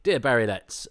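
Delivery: lightly hammed-up letter opening; mock letter reading. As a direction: read it like a pompous letter writer. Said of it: "I would have preferred a letter that said".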